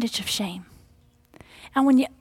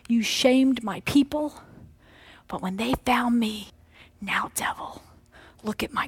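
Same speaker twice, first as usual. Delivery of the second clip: God's voice. Acted. Voicing God to the devil.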